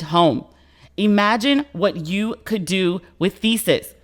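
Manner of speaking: upbeat, punchy podcast ad voice; slow down on the web address; ad read. Acted. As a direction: sell it like a sponsor spot. Sponsor ad read.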